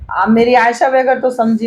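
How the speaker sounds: ordinary delivery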